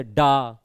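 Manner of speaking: "डा" held long and stressed; "डा" as a strong, lengthened beat; stressed long syllable. Shown as a demonstration. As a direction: draw out the vowel of "डा" with firm stress. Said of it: "थोड़ा देर तक बोला जाता है".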